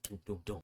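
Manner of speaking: soft spoken thumps; low-volume mimicked banging on a bunk; imitated rack knocks. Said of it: "hit on the rack".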